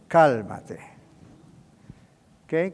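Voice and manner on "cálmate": lower, measured 'cálmate'; calming. Acted. Messengers of God to the hurrying preacher, calming. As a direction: settle someone down gently.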